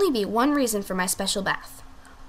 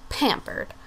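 whispered; 3 semitones higher, 7 dB quieter than usual. Acted. Coy aside in diva voice.

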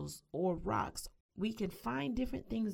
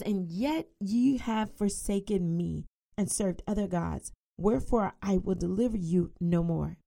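fast, louder proclaiming of the verse; scripture reading; 4 dB louder than usual. Acted. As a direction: drive the long list forward with force. Reads scripture aloud.

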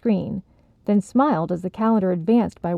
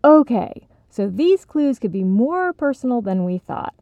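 exasperated; 4 semitones higher than usual. Acted. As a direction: throw up your hands. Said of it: "threw his hands in the air".

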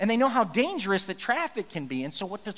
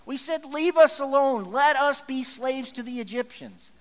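higher, slow mock plea; complaining Israelites; 4 semitones higher, 4 dB louder than usual. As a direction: slowly beg to be left as slaves.

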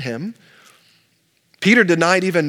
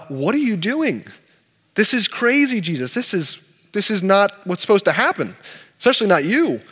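shocked protest; 3 semitones higher than usual. Acted. Peter protests foot washing.

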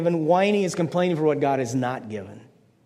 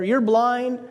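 mock jeer, pitched up high; imitating a yelling dad; 7 semitones higher than usual. Dad yelling at the umpire, mock jeering. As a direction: heckle it at the umpire like an angry fan. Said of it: "he yells at the umpire".

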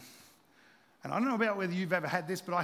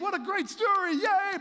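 high, bright mock yay; much higher, louder playful cheer; 10 semitones higher, 5 dB louder than usual. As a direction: cheer it like a naive fan. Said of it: "you would think".

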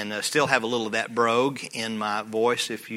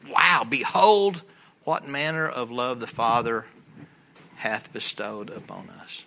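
awed wow; slower than usual. Acted. Reading scripture with awe.

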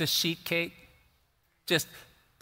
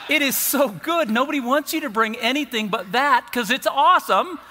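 much higher and louder, laughing; laughing praise; 9 semitones higher, 6 dB louder than usual. Real, not acted. Preacher raving about his mom's cobbler, loud laughing delight.

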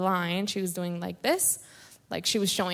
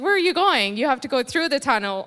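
higher, louder urgent question; mock urgent call; 4 semitones higher, 4 dB louder, faster than usual. Friend Jenna calling her back to the tunnel, urgent.

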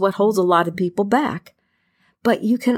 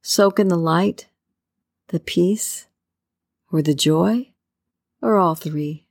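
guided meditation. Acted. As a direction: ease the listener into calm with long pauses.

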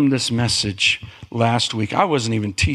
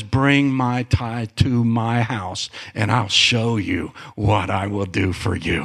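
voice of God; 3 semitones lower than usual. Retold or imitated. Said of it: "The Lord says".

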